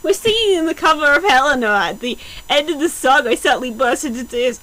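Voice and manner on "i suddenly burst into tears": usual speaking voice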